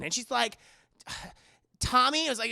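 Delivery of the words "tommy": surprised. Retold or imitated. She guesses the caller.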